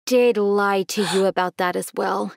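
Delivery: slow, subdued, heavy delivery; sombre confession. Acted. Dad tells his daughter how her mother died, sombre. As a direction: break the bad news gently and slowly.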